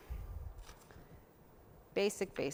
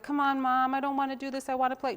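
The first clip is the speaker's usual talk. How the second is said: put-on higher, whining child voice; whiny kid; 5 semitones higher, 3 dB louder than usual. Little girl complaining to her mom, whiny and higher. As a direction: beg to go play instead. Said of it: "And I'd be like".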